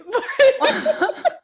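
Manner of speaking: loud, high laugh. Real, not acted. Joking the band never came back, laughing loudly. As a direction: laugh at your own joke. Laughs at "which was a lie.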